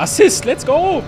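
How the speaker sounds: high, loud hyped bro voice; gym bro. Pretend.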